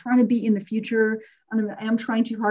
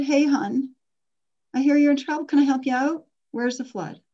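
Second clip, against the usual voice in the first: higher, cheerful helper's greeting; Uncle Paul, friendly; 5 semitones higher than usual. Retold or imitated. Uncle greeting his niece after her basement flooded, a lightly voiced friendly uncle. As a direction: sound like the uncle who shows up to help. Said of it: "He said".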